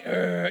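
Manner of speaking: low mock mummy groan. Lazarus comes creeping out bound in linens, with a mummy groan. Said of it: "creeping out like a mummy".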